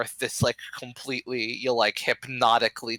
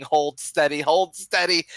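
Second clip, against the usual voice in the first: mock yell, rising higher; elder still yelling; 4 semitones higher than usual. Village elder to villagers running off, half-hearted yell. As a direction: call it out twice, climbing on the repeat. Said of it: "he's still yelling".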